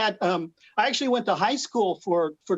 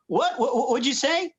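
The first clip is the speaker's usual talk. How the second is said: higher, mildly puzzled American film character; American movie character; 6 semitones higher than usual. Acted. Movie character asks his friend to repeat, lightly acted puzzlement. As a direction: lightly act a baffled American listener. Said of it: "the American character next to him would say".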